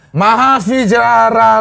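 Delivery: "Vijayaralongkorn" with an English v and j; misreading with English V. Real, not acted. Guest reading a Thai royal name aloud, misread. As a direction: say "Vijayaralongkorn" slowly, as if spelt in English. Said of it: "gue dari awal tuh baca".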